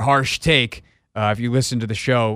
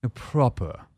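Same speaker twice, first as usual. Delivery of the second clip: put-on proper Southern accent; 4 dB quieter than usual. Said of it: "proper ... Charleston".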